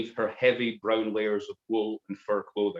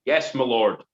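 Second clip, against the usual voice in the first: soldiers in unison; 5 dB louder than usual. Acted. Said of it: "said the gathered soldiers in unison".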